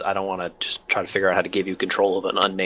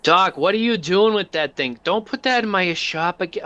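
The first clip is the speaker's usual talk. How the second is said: shouting over; 9 semitones higher, 3 dB louder than usual. Acted. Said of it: "shouts over as he sees".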